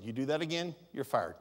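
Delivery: low, quiet, steady firing warning; calm firm warning. Shown as a demonstration. Pastor shows staff a calm warning, low and quiet. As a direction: state it plainly without raising the voice. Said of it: "I will do exactly what I said".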